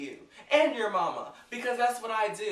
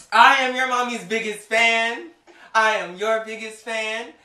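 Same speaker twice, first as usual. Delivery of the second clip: gushing fan; 3 semitones higher, 10 dB louder, slower than usual. Retold or imitated. Gushing to idol's daughter.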